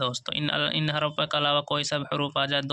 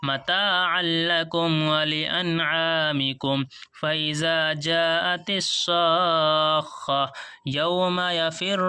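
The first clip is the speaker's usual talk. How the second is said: slow, melodic chanted tilawat; Quran recitation; much slower than usual. Shown as a demonstration. Teacher reciting the whole passage to students in melodic tilawat. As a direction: sing the verses out slowly and evenly.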